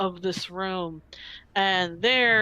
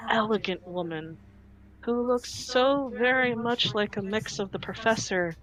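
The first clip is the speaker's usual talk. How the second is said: ordinary talk, nothing marked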